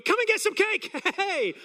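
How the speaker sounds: high, loud drive-by holler; retold shout. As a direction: shout an invitation to a neighbour. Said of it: "But he just shouted".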